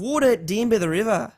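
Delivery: demonstrated Aussie phrase; Australian accent. Shown as a demonstration. Co-host teaching friends an Australian phrase, Aussie accent. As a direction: show them the Australian vowels. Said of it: "an Australian accent".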